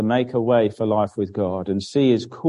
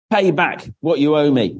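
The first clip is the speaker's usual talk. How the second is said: demanding; 4 semitones higher than usual. Acted. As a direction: demand the money back, lightly acted. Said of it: "he demanded".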